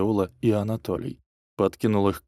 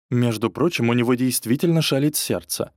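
shaming; 3 semitones higher than usual. Acted. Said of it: "пристыдила меня мачеха".

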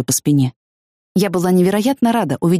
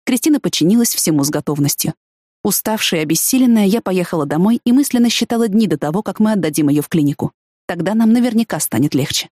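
ordinary talk

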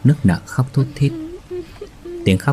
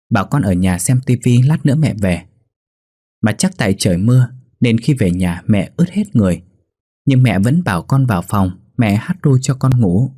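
put-on innocent child; 3 semitones higher than usual. Boy tells the family his mother sang to him, lightly voiced and naive. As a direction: chatter on naively like a small kid. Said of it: "Bé Tý hồn nhiên mà trả lời".

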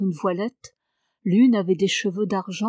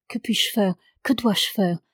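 pleading. Acted. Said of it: "supplia-t-elle".

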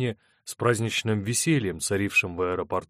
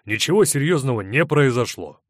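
louder, firm dismissal; 4 semitones higher, 6 dB louder than usual. A narrator's reading. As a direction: shut the matter down firmly. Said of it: "резко сказал Рудольф".

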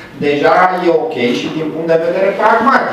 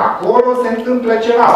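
quick, higher, teasing mystery; mysterious hint; 9 semitones higher, faster than usual. Shown as a demonstration. Lecturer teasing students about the room next door, quick and higher. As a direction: dangle a secret in front of the class.

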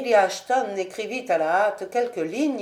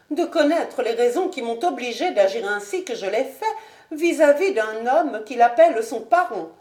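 higher, stiff polite noblewoman; higher proud lady; Lady Ashton; 3 semitones higher, 3 dB louder than usual. Acted. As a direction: coolly justify herself to the marquis.

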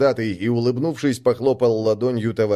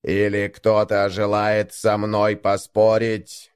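distorted speaker voice; 3 semitones lower, slower than usual. Acted. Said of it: "искажённый голос в ретрансляторе".

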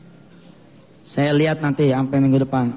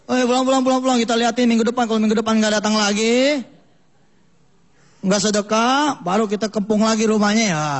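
rough villager warning; 4 semitones higher than usual. Acted. Villagers threaten old man.

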